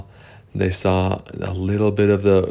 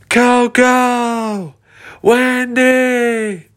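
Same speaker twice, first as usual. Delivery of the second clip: high, louder calling out names; high loud call for friends; 4 dB louder, much slower than usual. Acted. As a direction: call across the field.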